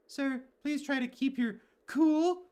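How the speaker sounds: high, slow, pleading character voice; voiced game character. Streamer voicing a game character calming the warden, high and slow. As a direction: pitch up and plead gently with the warden.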